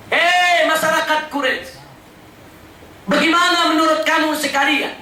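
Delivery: declaimed address to a crowd; calling out. Retold or imitated. Prophet asks the gathered Quraysh to believe him, calling out. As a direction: put an urgent question to the assembled tribe. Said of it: "Nabi teriak bilang".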